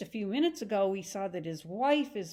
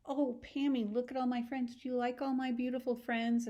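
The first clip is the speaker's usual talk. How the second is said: showing off; 4 semitones higher than usual. Acted. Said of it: "she wants to show her off".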